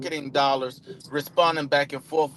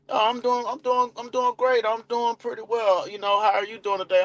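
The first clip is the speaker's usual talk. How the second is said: higher, cheerful mock lead; upbeat reply; 6 semitones higher than usual. Lead Eddie answering the caller cheerfully. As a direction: answer the greeting with eager cheer. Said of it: "Eddie hit me with the".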